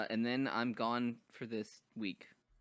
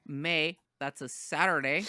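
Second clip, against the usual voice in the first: put-on slow, drawn-out Minnesotan accent; 4 semitones higher, slower than usual. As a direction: lay on the Minnesota accent slowly. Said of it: "you don't like my Minnesotan accent?".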